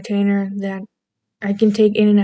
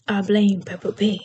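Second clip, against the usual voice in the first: British accent; 3 dB quieter than usual. Shown as a demonstration. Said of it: "I can do a lovely British accent".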